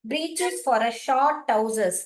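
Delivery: slow reading aloud. Acted. Reads the gloss slowly.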